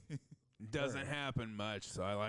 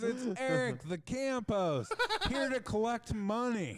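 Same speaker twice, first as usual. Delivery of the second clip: high, louder mock announcement through laughter; imitated yell; 10 semitones higher, 5 dB louder than usual. Camp host here to collect money, mock calling out. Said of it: "this guy just yells out".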